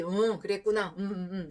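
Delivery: a hint of a robot, 그랬구나 without feeling; soulless robotic reply. Husband nodding along without soul, lightly robotic. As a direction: nod along with an empty 그랬구나. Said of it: "로봇처럼 뭐 영혼 없이".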